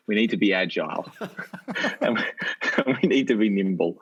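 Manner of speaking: quoting through giggles; laughing quote. Retold or imitated. Quoting a colleague's slogan to the host, laughing. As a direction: laugh while citing the slogan. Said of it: "in the words of Gil McLaughlin".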